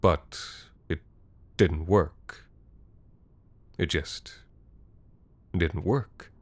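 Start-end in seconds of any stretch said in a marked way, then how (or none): 3.8-6.3 quiet stunned narration; hushed repeat. A narrator's reading. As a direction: let the disbelief sink in quietly. Narrator repeats the phrase, softer.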